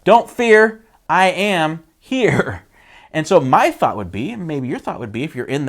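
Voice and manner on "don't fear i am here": casual reassurance. Retold or imitated. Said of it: "Jesus is like".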